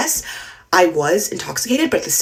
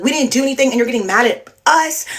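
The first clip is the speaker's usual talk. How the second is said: retold screaming; 6 semitones higher than usual. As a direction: throw the accusation back in a raised voice, half-shouted. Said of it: "He's screaming back at me".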